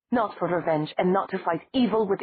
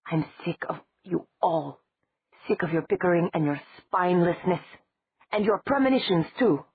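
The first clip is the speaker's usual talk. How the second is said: furious tirade; 3 semitones higher than usual. Acted.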